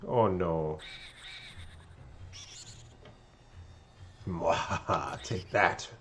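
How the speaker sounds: gloating ghost villain with cackle; King Boo. Acted. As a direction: sneer it like a smug ghost king. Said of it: "King Boo".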